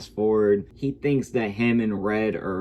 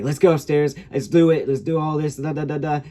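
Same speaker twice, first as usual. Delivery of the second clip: higher-pitched mock girl urging him on; girl's voice; 6 semitones higher, 4 dB louder than usual. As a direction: imitate a girl pushing an invitation. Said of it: "she starts talking about".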